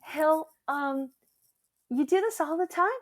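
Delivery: lightly voiced puzzled friend; friend's question. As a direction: ask it as a curious friend. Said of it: "she goes".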